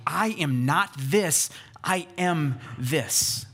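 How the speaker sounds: "not" and "am" stressed, slowly spaced words; emphatic contrast. Retold or imitated. Preacher voices John the Baptizer deflecting attention, emphatic contrast. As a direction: set "not" against "am", slowly and firmly. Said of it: "continues this emphatic deflection".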